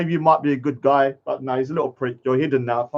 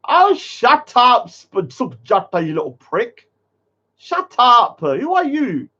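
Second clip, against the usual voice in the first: real irritation, slowed and raised on oh shut up; angry snap; 4 semitones higher, slower than usual. Real, not acted. Streamer snapping at a rude chat commenter, angry.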